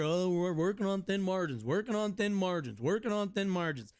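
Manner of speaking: repetitive sing-song mock complaint; lightly mocked boss's refrain; mocking restaurant owners. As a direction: imitate owners droning out the same excuse. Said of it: "I always gotta hear".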